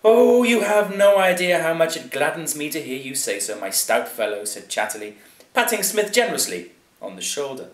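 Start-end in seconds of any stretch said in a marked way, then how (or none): 0.0-4.4 high, loud gushing aristocrat; effusive master, loud then easing down; delighted hearty lord. A narrator's reading. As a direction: gush with delight as the lord of the manor. Plays Lord Chatterley in a story.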